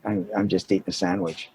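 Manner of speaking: soft, low, halting excuse; sheepish excuse. Retold or imitated. New actor explains his sandwich to the assistant director, sheepish. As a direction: make a small, quiet excuse.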